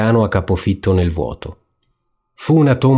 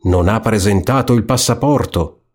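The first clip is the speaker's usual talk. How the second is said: yelling rat; 3 semitones higher than usual. Acted. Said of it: "come gridava".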